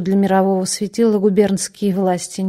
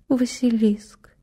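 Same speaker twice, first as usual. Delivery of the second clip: hollow, slow whisper; whispered echo; 2 semitones higher, 3 dB quieter, slower than usual. Acted. Patient echoes, frightened.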